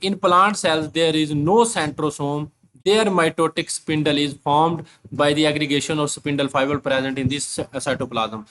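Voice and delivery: reads the English line very slowly, word by word; slow dictation reading; slow textbook reading. Shown as a demonstration.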